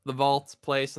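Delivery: normal talking voice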